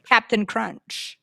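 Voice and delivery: slow, drawn-out cereal name; dreamy oblivious shopper. Retold or imitated. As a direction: stretch it out, lost in the aisle. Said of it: "And you're like".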